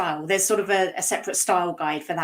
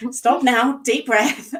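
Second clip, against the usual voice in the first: telling herself to calm down; 5 semitones higher, 6 dB louder, slower than usual. Real, not acted. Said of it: "I'm in full rant mode".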